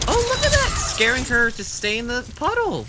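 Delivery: high, loud excited call. Real, not acted. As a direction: jump up with excitement at the play. Excited commentator reacts to play.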